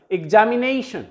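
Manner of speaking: examination with NA stressed and lengthened; examination, stressed on its second-last syllable; greater breath force on NA. Shown as a demonstration. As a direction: lean on the NA in examination. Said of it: "थोड़ा सा greater breath force इस".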